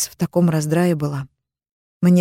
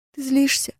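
put-on higher girlish confession, tearful; teen sister confesses the call, higher and tearful; young sister Amina; 9 semitones higher, 3 dB quieter than usual. A narrator's reading. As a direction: confess guiltily as the little sister. Sister asks, voiced higher.

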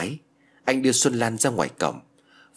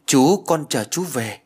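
higher, slow, drawn-out happy call; child's delight; 5 semitones higher, 4 dB louder, slower than usual. A narrator's reading. Small girl glad to see Văn, delighted. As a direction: greet him gladly as a little child. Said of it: "mừng rỡ khi gặp Văn".

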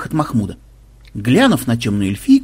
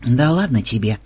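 listless brush-off; 2 semitones lower than usual. Acted. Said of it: "вяло отмахнулся Ксенобайт".

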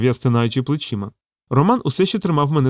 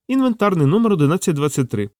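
usual speaking voice

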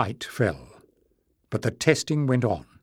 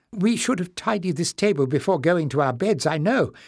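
put-on higher, fussy old librarian voice; a flustered old librarian apologising; old librarian Joseph; 5 semitones higher than usual. Old librarian apologises to the king, higher and fussy.

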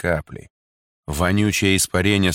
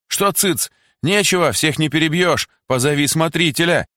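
high, loud defiant cries; defiant shouting; 9 semitones higher, 3 dB louder than usual. A narrator's reading. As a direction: throw it back at the soldier. Women defy the soldier. (дерзкий крик)

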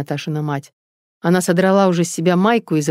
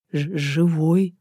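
slow, halting stammer; stammering mumble; much slower than usual. Acted. Father handing over the newborn, stammering mumble. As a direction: stumble over the first sound. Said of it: "заикаясь, пробормотал отец".

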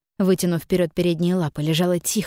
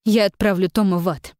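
rising, louder, fierce curse; furious vow; 5 semitones higher, 3 dB louder than usual. A narrator's reading. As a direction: hurl the threat, building higher. Jin vows revenge on Tom. (яростная клятва мести)

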